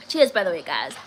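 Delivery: breathy laugh through the word Cheers. Real, not acted. Laughing toast to chat.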